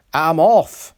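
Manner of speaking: high, loud cry; exclaiming. A narrator's reading. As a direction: yell as you derail. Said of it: "he exclaimed".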